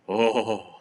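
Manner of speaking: long drawn-out groan of dread; dismayed groan. Real, not acted. Co-host dreading live action Mulan, groaning. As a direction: groan it out slowly.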